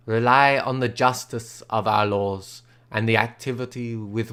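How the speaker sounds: a hint of a grave old father, slowed down. Father comforting niece.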